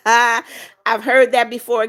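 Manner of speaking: laughs, then slowly says it through the laugh; amused, a little embarrassed chuckle. Real, not acted. Laughing at lookalike comment.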